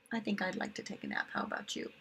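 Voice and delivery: soft, drowsy murmur; sleepy aside. Acted. Teacher pretending to be sleepy with the children, soft and drowsy. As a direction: yawn it out like you're nodding off. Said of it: "drowsy aside to children".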